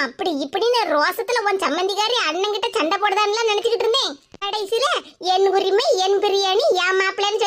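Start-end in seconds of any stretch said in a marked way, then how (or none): 5.3-7.4 என் உரிமை, என் biryani lower, lightly mimicking; mocking her words. Neighbour mimics the sister's boast, a lower mock. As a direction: sneer her boast back. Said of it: "சொல்லிவிட்டு".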